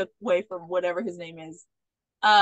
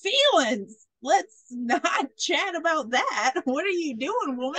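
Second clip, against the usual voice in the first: higher, hammed-up dodge of feelings; mock alarm; 5 semitones higher, slower than usual. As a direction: imitate a man balking at serious talk. Retold man balks at feelings talk.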